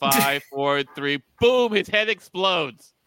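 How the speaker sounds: mock countdown. Counting down to the explosion.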